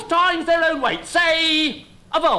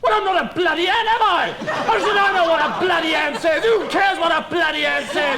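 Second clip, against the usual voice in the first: exasperated; 3 semitones higher than usual. Acted. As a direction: snap back at him, fed up. Exasperated outburst at friend.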